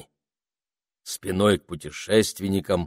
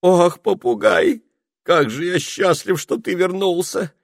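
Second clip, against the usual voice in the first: joyful wizard; 11 semitones higher, 6 dB louder than usual. A narrator's reading. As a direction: greet him in happy relief.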